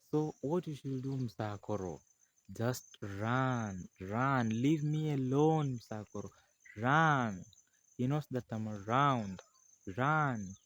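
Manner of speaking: urgent plea. Acted. Lady urging him to flee.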